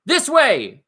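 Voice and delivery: frantic goblin call; goblin yell. Acted. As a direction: yell the direction. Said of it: "some yelled".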